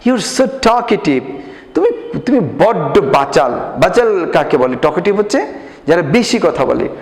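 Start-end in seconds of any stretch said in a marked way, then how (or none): 0.1-1.2 slow, careful English read-aloud for pupils. Shown as a demonstration. Teacher reading slowly to the class. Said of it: "উচ্চারণগুলো খেয়াল করবা". 1.7-3.5 scolding mother. Acted. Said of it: "তার মা বলে".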